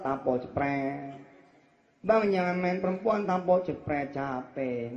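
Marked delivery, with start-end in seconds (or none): 2.1-3.3 wife pleading to husband. Retold or imitated. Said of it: "kalau dia ngomong sama laki".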